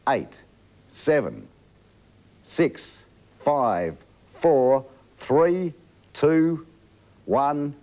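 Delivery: crowd chanting the countdown; many voices counting down together; new year countdown crowd. Real, not acted.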